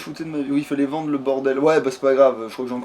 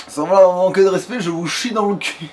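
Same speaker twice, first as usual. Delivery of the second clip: louder mock deference, slowing at the end; mock-polite insult; 4 semitones higher, 5 dB louder than usual. Player answering a game character, mock-polite insult. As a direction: deliver a crude insult with false courtesy.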